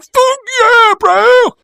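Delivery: very high, loud mock Aussie cheer; hammed-up Australian fan shout. Fans at the airport greeting them, in a hammed-up Aussie yell. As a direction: yell it like an over-the-top Aussie bloke.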